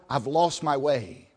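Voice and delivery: slow, heavy confession to God; confessing in prayer. Acted. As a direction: admit it to God slowly. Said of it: "when we come to God and say".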